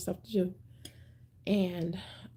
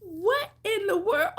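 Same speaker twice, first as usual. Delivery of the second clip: laughing disbelief; 10 semitones higher, slower than usual. Real, not acted. Laughing at the dropped numbers.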